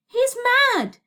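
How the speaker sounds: high, loud shout over noise; alarmed shout. A narrator's reading. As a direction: shout it over a roaring wind. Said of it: "Elliot shouted above the noise".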